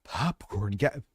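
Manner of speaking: imitating someone winded, slow and halting; hesitant, mildly mocking winded echo; mock out-of-breath. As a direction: drag it out as if short of breath. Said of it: "You, you sat out of breath".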